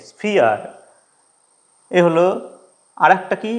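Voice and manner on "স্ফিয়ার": "স্ফিয়ার" with ই and আ blended, falling; ia diphthong demo. Shown as a demonstration. Teacher repeats sphere to show the blended ia, gliding. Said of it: "ই আর আ মিলিয়ে".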